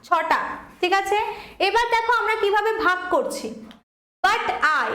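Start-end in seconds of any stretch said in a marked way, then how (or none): 4.2-4.9 light But, stronger I; stress on I. Shown as a demonstration. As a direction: lean on "I", keep "But" unstressed. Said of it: "stress কম পড়ছে, I এ বেশি পড়ছে". (I-এর ওপর জোর)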